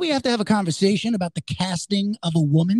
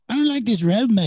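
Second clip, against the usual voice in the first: put-on Australian accent; 2 semitones higher than usual. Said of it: "It's such a great accent".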